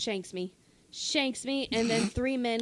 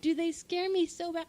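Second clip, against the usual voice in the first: excited fear; 7 semitones higher, 5 dB louder than usual. Real, not acted. Telling of alligator fear.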